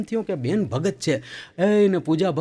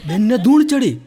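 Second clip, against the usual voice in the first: laughing; 6 semitones higher, 5 dB louder than usual. Real, not acted. Punchline told laughing.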